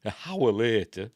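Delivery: "A hour" said with no n and a silent h; dropped H. Shown as a demonstration. Explaining his Yorkshire way of saying "A hour". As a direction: drop the h and say "A hour". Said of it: "You drop the H".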